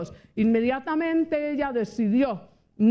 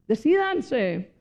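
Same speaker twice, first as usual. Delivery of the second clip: slow firm urging; much slower than usual. Real, not acted. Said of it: "slow urging command".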